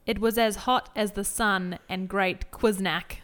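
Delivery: put-on slow, lightly slurred drunk read; drunk Susie. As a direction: read it like you've had too many Chardonnays. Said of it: "'cause I'm not drunk".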